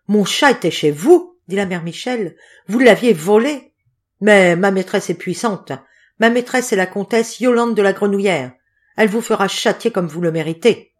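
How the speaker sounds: proud menacing scold; threatening. Acted. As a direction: threaten the fortune teller. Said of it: "En proférant ces menaces".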